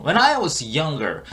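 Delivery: very slow, word-by-word teaching delivery; slow model reading. Shown as a demonstration. Teacher repeats the clip for learners, slow model reading. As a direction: stretch each English word out slowly.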